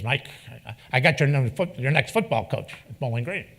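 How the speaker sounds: a light Lou Holtz impression, hint of a lisp; imitating Coach Holtz. Holtz calling Mike about a coach, lightly imitated. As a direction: lightly voice the old coach on the phone. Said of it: "he's got kind of a lisp".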